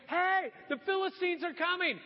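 high-pitched acted alarm; mock called warning. Delilah testing the sleeping Samson, calling out. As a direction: call out sharply to wake a sleeper.

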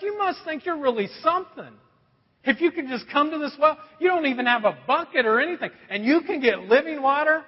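woman with attitude. Retold or imitated. Woman doubting Jesus has living water, mock sassy. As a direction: imitate sassy disbelief. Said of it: "she kinda has this attitude".

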